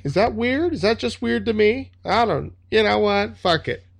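high, rattled mock panic with wild pitch leaps; hammed-up nervous wreck, voice jumping up high; freaking out, feigning calm. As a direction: babble nervously while insisting you're okay. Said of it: "freaking the fuck out. So he's like".

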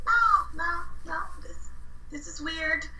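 high, emphatic no-no-no; firm refusal. Retold or imitated. Refusing his request to come over.

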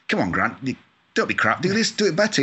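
high, mock-bossy jibe at Grant; teasing bosses. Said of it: "and they used to say".

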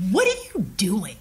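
hushed, whispery scorn; a contemptuous question, half whispered; disdainful. Retold or imitated. Executive cuts off her eager pitch, hushed disdain. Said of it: "Like, with such disdain in his voice".

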